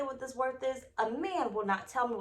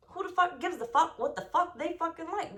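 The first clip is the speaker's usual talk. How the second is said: laughing rant; 6 semitones higher than usual. Real, not acted. Fired-up rant about stretch marks.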